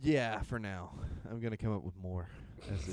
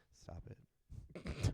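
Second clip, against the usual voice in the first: whispered; 7 semitones lower, 8 dB quieter than usual. Retold or imitated. Retold whisper.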